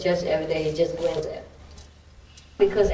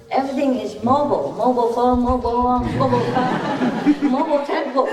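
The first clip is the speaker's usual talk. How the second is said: giggling list; 6 semitones higher than usual. Real, not acted. Listing, giggling.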